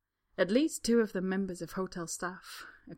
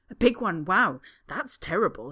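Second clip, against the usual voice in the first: mock disgust; 9 dB louder than usual. The speaker fakes disgust.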